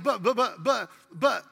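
mock stutter. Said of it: "He had a stutter issue".

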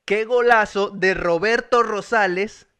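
slow, deliberate model line; dictated phrase. Shown as a demonstration. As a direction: give the phrase slowly to be repeated. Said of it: "yo te doy esa frase a ti".

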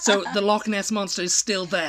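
laughing through the words. Real, not acted. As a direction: laugh while delivering the punchline. Punchline of the hoax story.

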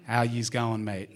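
lightly put-on Aussie bogan greeting; a touch of broad Australian bogan; Aussie bogan accent. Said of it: "or more Aussie bogan".

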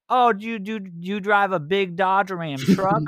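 high-pitched mock British accent; weird British accent. British gamer quizzing an American about trucks, weird British accent. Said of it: "like, weird British accent".

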